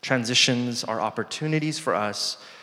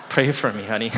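laughing plea; faster than usual. Retold or imitated. Joking reply to wife, laughing.

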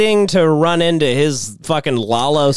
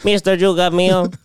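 mock client boast; 3 semitones higher than usual. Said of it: "client voiced".

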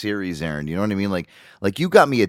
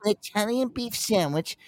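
mock clueless customer; 11 semitones higher than usual. Tourist ordering Italian beef, hammed-up and hesitant. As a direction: dither through the order in a high voice.

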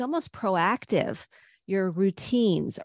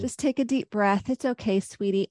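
tender self-talk; 2 semitones higher than usual. Retold or imitated. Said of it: "talking to themselves tenderly".

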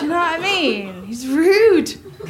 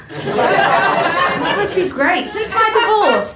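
slow sarcastic; 4 semitones higher, much slower than usual. Acted.

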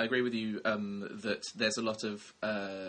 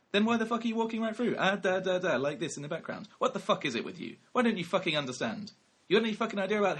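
angry rant, higher and louder; Christian Bale; 8 semitones higher, 4 dB louder than usual. Retold or imitated. Actor tearing into the director of photography mid-scene, imitated angry rant. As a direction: imitate an irate film star's tirade in a mid-Atlantic accent. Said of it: "in his, um, slightly weird mid-Atlantic accent".

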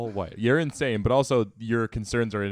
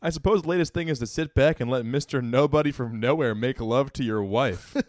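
1 indignant Tom; 3 semitones higher, 4 dB louder than usual. Acted. Reading Tom's outburst aloud.

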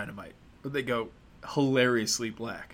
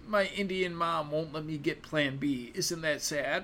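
mock teen movie girl; 4 semitones higher than usual.

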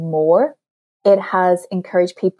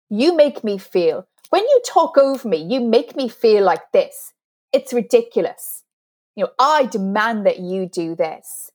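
mildly heated, blaming demonstration; aggressive demand. Shown as a demonstration. Coach demonstrating aggressive you-statements to listeners, mildly accusatory. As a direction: act out a pushy accusation, pitch jumping mid-way. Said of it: "When we're aggressive".

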